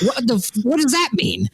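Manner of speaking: can't believe what they said; baffled by a stranger's warning, incredulous. Retold or imitated. Incredulous aside while running.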